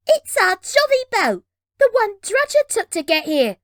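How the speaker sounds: high, loud breathless surprise; gasping surprise. Acted. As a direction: gasp it out in relief. Red gasps, surprised.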